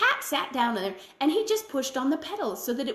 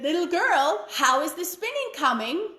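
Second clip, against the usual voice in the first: witch calling; 6 semitones higher than usual. A narrator's reading. Witch returns, calls again.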